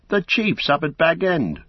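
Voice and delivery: put-on nervous old gatekeeper refusing politely; old Hob apologising. Old gatekeeper refusing Merry, high and anxious. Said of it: "said old Hob".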